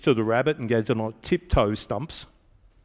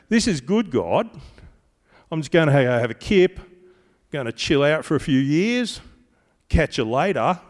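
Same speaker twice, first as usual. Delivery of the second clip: lazy believer; 3 semitones higher, 4 dB louder than usual. Retold or imitated. Voicing a believer taking a rest.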